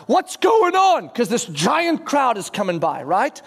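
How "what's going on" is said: higher, drawn-out call; retold shout. Blind man calling to the passing crowd, retold shout. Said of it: "and he shouts out".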